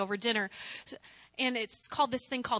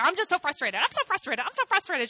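rising higher with each repeat; mock frustrated complaint; 5 semitones higher than usual. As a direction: imitate yourself griping to mom, more worked up each time. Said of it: "asked my mom. I was like".

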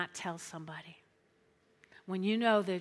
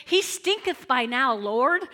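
King James quote; 3 semitones higher, 8 dB louder than usual. Acted. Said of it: "What's the King James say?".

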